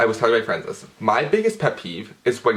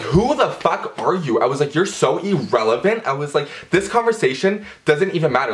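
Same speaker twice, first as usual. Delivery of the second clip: pitched up, scornful brush-off; dismissive retort; 4 semitones higher than usual. Retold or imitated. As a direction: swat him away with contempt. Dismissing the guy on the street.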